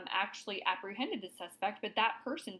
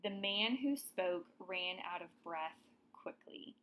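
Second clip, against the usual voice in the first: corrected sentence read out. Shown as a demonstration. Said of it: "a better way to write this one".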